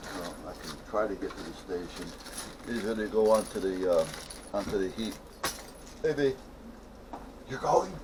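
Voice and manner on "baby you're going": whispered, much quieter hushed voice. Speaking while someone else is recording; whispering. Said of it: "Why are you whispering?".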